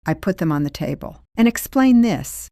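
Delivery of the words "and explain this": raised, louder accusing demand; loud confrontational challenge; confronting demand. Retold or imitated. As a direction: slap the proof down and challenge her. Confronting aunt with records.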